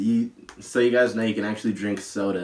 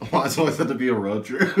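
cartoon villain laugh; 3 semitones higher, 3 dB louder, faster than usual. Real, not acted. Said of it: "sound like a cartoon villain with that laugh".

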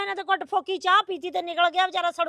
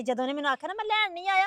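crying; faster than usual. Acted. Daughter crying while telling.

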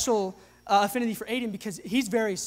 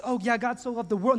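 mock casual shrug of a line; a hint of a dismissive churchgoer; vague, offhand. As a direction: toss it off like it means little. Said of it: "make it this vague, ambiguous thing".

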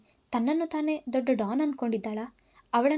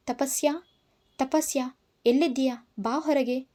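moderately raised, calling her out of the house; furious shout. Acted. Angry man calling Tapasya out of the house, raised shout. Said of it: "ಕಿರುಚಿದೆ".

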